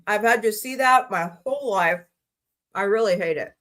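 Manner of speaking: talking with mouth full. Real, not acted. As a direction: speak through a mouthful of food. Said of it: "And I'm talking with my mouth full".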